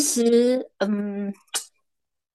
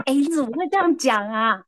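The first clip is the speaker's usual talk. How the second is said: laughing; 4 semitones higher than usual. Real, not acted. Cracking up at nephew.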